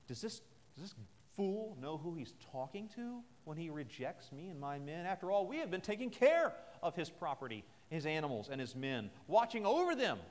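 building a mild angry rant; indignant outburst. Retold or imitated. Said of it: "He gets angry".

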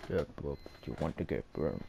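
put-on low, heavy Russian accent. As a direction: growl it like a tough Russian. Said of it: "I was using my Russian accent".

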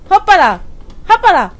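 loud high startled hoppala; startled yelp. Real, not acted. Player startled by something in the game, loud yelp. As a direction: jolt and yelp.

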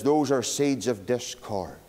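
low, slow, sinister devil. Retold or imitated. Devil tells Moody what the seeds are, low and slow. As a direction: growl it out slowly like the devil. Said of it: "He says".

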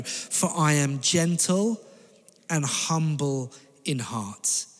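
slow, hushed and gentle, fading into a whisper; tender whisper. Acted. Jesus' words quoted tenderly.

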